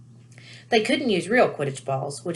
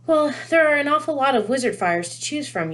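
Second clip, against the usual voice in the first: high motherly voice; a cheerful mum; Mrs Weasley voice; 8 semitones higher, 3 dB louder than usual. A narrator's reading.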